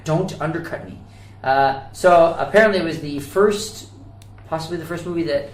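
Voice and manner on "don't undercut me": mock outrage. Mock outburst at co-host.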